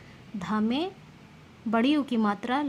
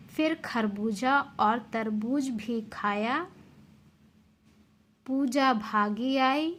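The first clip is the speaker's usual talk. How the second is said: slow, lively storybook reading; expressive read-aloud for young pupils; reading a story to children; slower than usual. Acted. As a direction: tell it like a bedtime tale for kids.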